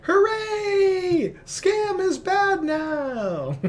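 very high, loud cartoon dog voice. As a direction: squeal it like an excited pet dog. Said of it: "I was doing my dog voice".

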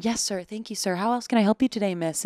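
lightly voiced polite country club server; a hint of eager-to-please service patter; deferential server. Country club server fawning over guests, deferential. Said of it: "I'm used to decorum".

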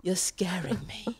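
frightened whisper; scared whisper. Retold or imitated. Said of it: "Mai, stop".

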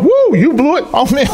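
hammed-up gloating; mock gloating. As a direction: taunt him for blowing it.

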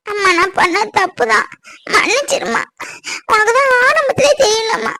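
tearful apology. Acted.

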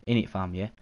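mock British slang accent; playful amateur British accent. Shown as a demonstration. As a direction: have a go at casual British, tag question on the end. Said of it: "do a British accent".

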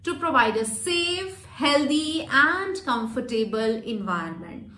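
slow, with "safe," drawn out before the comma; lengthened words before comma. Shown as a demonstration. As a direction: stretch "safe," and pause before going on. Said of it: "मैंने कैसे बोला यहाँ पे". (कोमा से पहले "safe" को खींचकर धीमे बोलना)

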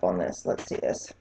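hushed whisper for the close-up. Real, not acted. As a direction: whisper as you lean in. Leaning in for a close-up.

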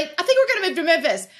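breezy, quick offhand announcement; mock-flippant quick aside. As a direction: toss it off casually and fast. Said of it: "just flippantly".

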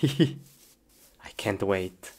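excited hushed whisper; breathless whispered anticipation. Real, not acted. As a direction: whisper it, barely containing glee. Excited whisper before playing.

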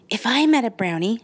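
put-on high, eager little girl; bright child daydreaming aloud. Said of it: "said Brooke".

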